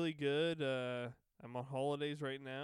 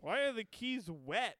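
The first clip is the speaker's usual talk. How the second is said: confused coworker voice; 7 semitones higher than usual. Pretend. Voicing the confused staff member.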